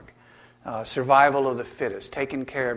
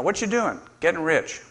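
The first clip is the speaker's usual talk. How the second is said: lightly voiced cartoon dialogue; 3 semitones higher than usual. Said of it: "Hobbes asked him".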